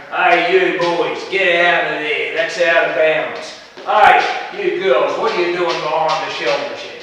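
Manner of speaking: put-on teacher yelling at kids. Teacher shouting at boys and girls out of bounds, loud bark. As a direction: bellow across the schoolyard at the boys.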